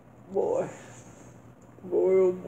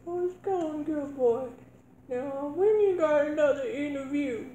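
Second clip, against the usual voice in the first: a higher-pitched mother checking on her son; 7 semitones higher than usual. Acted. Mother asking her son about his next interview, in a higher motherly voice. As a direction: play the nagging mom asking about work.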